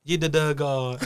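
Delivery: imitating a triumphant Viking yell; Viking shout. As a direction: call it out like a lone Viking. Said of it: "one Viking just says".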